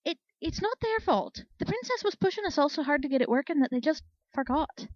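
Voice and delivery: a nervous mare barely daring to speak up; timid mare stammering an excuse for the unicorns. A narrator's reading. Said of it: "a timid voice answered".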